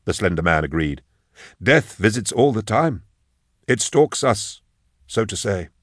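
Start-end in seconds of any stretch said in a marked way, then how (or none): 1.6-5.7 measured, higher-pitched funeral director's voice; formal lilting undertaker, reading down the list; solemn obliging undertaker. Acted. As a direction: recite the arrangements with deferential care. Slender undertaker philosophises on death.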